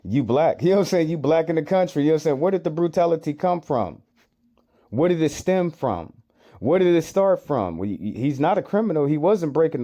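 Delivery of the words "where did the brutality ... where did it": pressing rhetorical question. Real, not acted. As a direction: push the question home, incredulous. Repeats the question, rebutting clip.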